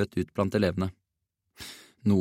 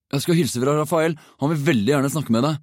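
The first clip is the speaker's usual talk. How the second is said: higher, quick, needling threat; menacing hiss; 6 semitones higher, 3 dB louder than usual. A narrator's reading. Jake passes P in the lunch queue, hissing a veiled threat. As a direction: pass the threat on from the corner of the mouth. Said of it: "hveste han gjennom en sprekk i munnviken".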